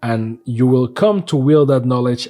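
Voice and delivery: low ominous letter reading; dramatic reading. Acted. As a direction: read it like a guild decree.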